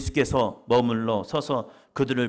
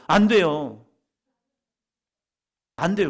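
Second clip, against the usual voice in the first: louder, emphatic 안 돼요; 3 semitones higher, 8 dB louder than usual. Shown as a demonstration. Congregation told to say no to the neighbour, loud and firm. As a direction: say it firmly to the neighbour. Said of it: "옆에 사람 보시면서요".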